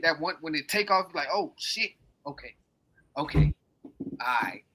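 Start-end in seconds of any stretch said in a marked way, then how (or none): 1.3-4.6 nervous whisper. Retold or imitated. Reenacting a nervous plane takeoff.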